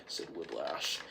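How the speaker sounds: ordinary talk, nothing marked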